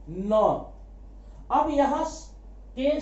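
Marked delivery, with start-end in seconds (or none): 0.1-0.7 न as a plain "na", k silent; न alone, opened on the n; letter sound demo. Shown as a demonstration. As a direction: sound out the first heard sound, न. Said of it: "किसको बोल रहे हैं".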